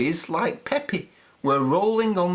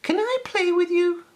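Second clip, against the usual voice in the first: tag. A narrator's reading. Peppy asks the swans.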